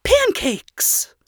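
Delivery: breathless whispered exclamation; excited whisper. Acted. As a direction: whisper it, eager. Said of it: "how monotone her voice was".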